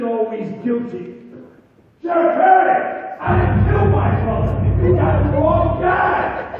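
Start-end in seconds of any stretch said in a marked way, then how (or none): 2.0-6.6 loud, pleading cry for mercy; desperate plea. Acted. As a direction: beg the sheriff, voice raised. Accused man begs the sheriff.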